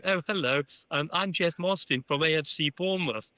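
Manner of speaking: lightly put-on English gentleman accent; copied English gentleman voice. Newcomer introducing himself to Arsenal chairman, imitating his English gentleman voice. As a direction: mimic the English gentleman you're meeting. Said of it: "I started talking like this".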